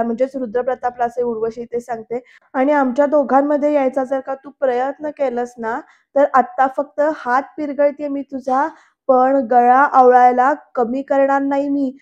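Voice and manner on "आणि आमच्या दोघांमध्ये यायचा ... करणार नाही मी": threatening. Retold or imitated. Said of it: "अशी धमकी दिली".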